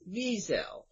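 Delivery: Wiesel as VEE-zel, first syllable stressed; proper pronunciation. Shown as a demonstration. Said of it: "The, the proper way".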